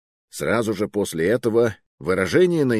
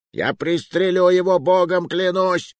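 high, desperate shouted threat; yelling; 11 semitones higher, 4 dB louder than usual. A narrator's reading. Threatening to shoot his hostage, yelling. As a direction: yell the threat, dragging out the oath. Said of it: "заорал он на весь Сент-Пьер".

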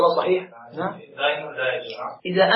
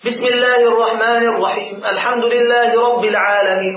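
continuous recitation. Shown as a demonstration. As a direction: recite straight on, verse after verse. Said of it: "متابع، متتابع". (تلاوة متتابعة موصولة)

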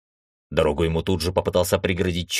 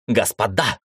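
calling out; 2 semitones higher than usual. Acted. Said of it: "закричал Баранов".

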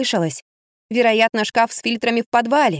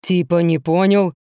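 low, slow rough bloke; gruff confused man; 4 semitones lower than usual. A narrator's reading. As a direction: crude stranger puzzled by a voice in the wall. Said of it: "донёсся грубый голос".

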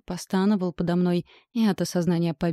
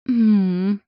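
pleasured mmm; 2 semitones higher, 7 dB louder than usual. A narrator's reading. Eating forbidden junk food.

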